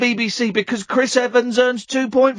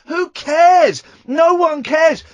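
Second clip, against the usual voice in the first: loud, higher exasperated outburst; louder ranting dismissal; raised voice; 7 semitones higher, 4 dB louder, slower than usual. Real, not acted. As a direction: throw it at them, fed up. Ranting at listeners about pay.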